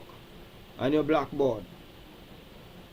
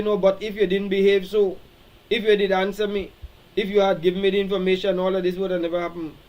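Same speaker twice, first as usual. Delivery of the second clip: raised, higher, rushing blame speech that speeds up; defensive excuse; 3 semitones higher, 4 dB louder than usual. Retold or imitated. Someone blaming the other while apologizing, raised and fast. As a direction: justify yourself, hurrying through the excuses. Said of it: "Don't say".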